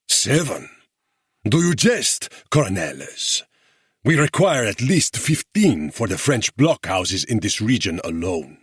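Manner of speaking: mock the small offer with a curled lip; scornful guerrilla leader. A narrator's reading. Guerrilla leader scorns the officers' offer, sneering. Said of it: "El Corazon Oscura's lip curled".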